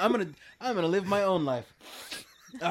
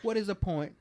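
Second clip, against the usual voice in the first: Michael Caine impression. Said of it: "'Cause I think it's that one".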